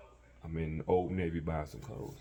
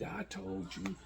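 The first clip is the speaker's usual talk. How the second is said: mock cussing mama. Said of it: "She start cussing me like".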